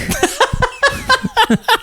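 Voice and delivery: high, squealing burst of laughter. Real, not acted. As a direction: crack up helplessly. Laughs after fumbling the sign-off.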